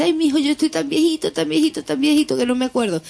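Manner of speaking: a hint of a doddering old man rattling on quickly. Joke teller voicing the old man at heaven's gate, lightly doddering. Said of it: "sube el alma de un viejito".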